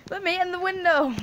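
high squeaky game-character voice. Pretend. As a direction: pipe it up like a cartoon kid begging. Voicing character at window.

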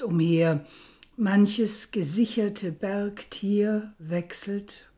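measured, deliberate reading with weighted pauses; poem recitation. Acted. Lecturer reciting Rilke's poem before interpreting it, measured poem recitation. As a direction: recite it solemnly, giving key words room and emphasis.

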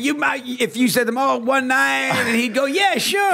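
high mock Andy Reid voice, rising to a squeak on sure; imitating Andy Reid. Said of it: "He would say".

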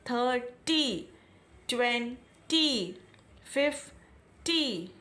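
थर्टी, ट्वेंटी, फ़िफ़्टी said slowly with a break, ending in ई; two-part words. Shown as a demonstration. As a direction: break each number in the middle. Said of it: "break करके बोलते हैं". (हर number को break करके धीरे बोलें)

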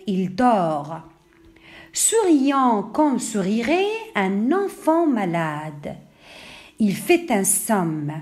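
measured poem reading with drawn-out line endings; unhurried classroom recitation of a poem. Acted. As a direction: recite the verse line by line, pausing between phrases. Reads the poem aloud.

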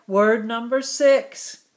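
whispered, no voice at all; a playful whisper to the class. Acted. Teacher whispers next word number.

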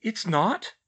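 high, rising disbelieving question; incredulous. A narrator's reading. Mother questioning daughter's claim, incredulous. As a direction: echo it back in disbelief. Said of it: "Emma said incredulously".

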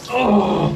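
gasp from cold. Real, not acted. Ice cold water hits.

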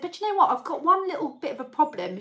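a confiding mum with a grievance; mum's voice. Retold or imitated. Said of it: "She said".

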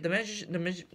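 tripping over the word magi-, restarting it; real stumble on magi-, repeated start; stuttering. Real, not acted. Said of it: "See how I'm stuttering?".

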